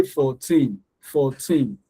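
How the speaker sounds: put-on "fourteen" with FOUR and TEEN evenly weighted; two separate, equal syllables in "fourteen"; equal stress. Shown as a demonstration. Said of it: "they are equal in sound".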